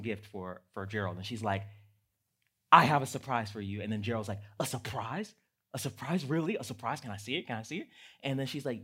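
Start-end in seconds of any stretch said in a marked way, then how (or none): 2.7-3.8 put-on children's reading voice. Shown as a demonstration. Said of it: "in my children's reading voice". 4.6-7.9 put-on children's reading voice. Shown as a demonstration. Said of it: "in my children's reading voice".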